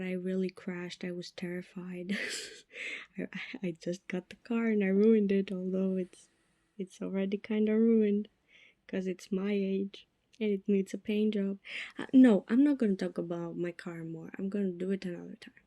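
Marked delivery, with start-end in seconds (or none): 1.0-2.2 hushed, breathy-soft admission; whispered confession. Real, not acted. Telling listeners how scared she was, whispered. 14.4-15.5 quick, hushed aside; rushed whisper. Real, not acted. Promising listeners to drop the car topic, fast whisper.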